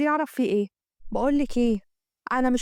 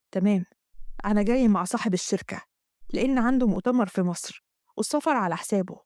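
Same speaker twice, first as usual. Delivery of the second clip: a touch lower, calm husband explaining; hint of a calm husband; lightly voiced husband; 3 semitones lower than usual. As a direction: answer the wife steadily as a lower-voiced man. Husband Ziad voiced by narrator.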